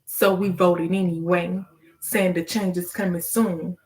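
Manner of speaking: measured spoken-word cadence; poem recitation. Acted. Poet urging listeners to ask God, measured verse. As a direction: recite in short phrases, leaning on the rhymes.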